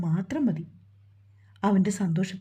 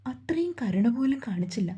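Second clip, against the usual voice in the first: breaking into tears. Acted. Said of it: "അതും പറഞ്ഞവൾ പൊട്ടിക്കരഞ്ഞു".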